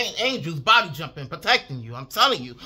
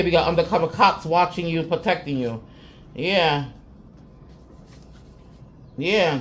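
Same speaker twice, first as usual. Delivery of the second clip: ordinary talk, nothing marked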